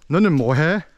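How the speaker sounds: standard Seoul accent, said quickly; quick standard Seoul intonation; proper Seoul Korean. Shown as a demonstration. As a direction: say it in neat Seoul city Korean. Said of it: "proper Seoul city Korean would be".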